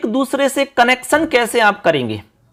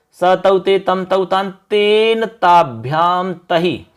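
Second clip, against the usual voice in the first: rote recitation; slower than usual. Shown as a demonstration. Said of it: "आप तत् शब्द बोल लो".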